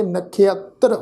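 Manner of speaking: ਨਖੇਤਰ said "nakhiattra"; sihari plus aira. Shown as a demonstration. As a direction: put an "i-a" glide after "kh" in ਨਖੇਤਰ, then "ttr". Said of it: "ਖੱਖੇ ਨੂੰ ਸਿਹਾਰੀ ਦੀ ਮਾਤਰਾ ਲੱਗ". (ਨਖੇਤਰ ਵਿੱਚ ਖੱਖੇ ਨੂੰ ਸਿਹਾਰੀ, ਫਿਰ ਐੜਾ)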